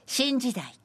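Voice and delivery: measured, projected verse reading; senryu recitation. Acted. Presenter reading a listener's senryu on air, measured recitation. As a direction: read out the verse with deliberate phrasing.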